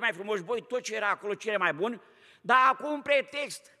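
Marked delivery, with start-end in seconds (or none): 2.4-3.8 louder, slow stress on pretext; pointed emphasis. Real, not acted. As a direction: lean hard on the excuse. Exposing Saul's excuse.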